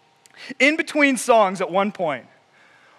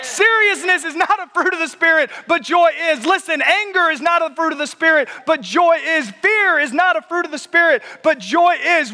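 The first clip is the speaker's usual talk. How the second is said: fervent, raised preaching voice; 7 semitones higher than usual. Real, not acted. Preaching at full force.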